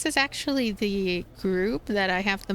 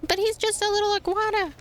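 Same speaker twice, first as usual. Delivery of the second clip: amused disbelief; 11 semitones higher than usual. Real, not acted. Amused at tiny iguana.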